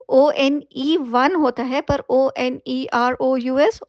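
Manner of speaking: letter by letter, unhurried, for dictation; slow spelling out. Shown as a demonstration. Teacher slowly spells the word for students, letter by letter. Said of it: "वनरस नहीं pronounce कीजिएगा".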